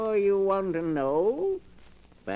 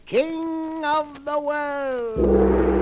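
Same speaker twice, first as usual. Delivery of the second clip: a hint of rising menace, louder on the last words; ominous title reveal; 5 semitones higher, 4 dB louder, much slower than usual. Keeper of the book teasing next week's tale, ominous swell.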